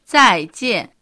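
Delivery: teacher modelling 再见; model pronunciation. Shown as a demonstration. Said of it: "では、発音してみましょう。".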